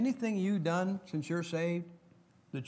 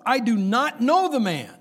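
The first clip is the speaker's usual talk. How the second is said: shouted, much higher denial; Peter's loud oath; 8 semitones higher, 10 dB louder than usual. Acted. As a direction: bellow the denial like a cornered man.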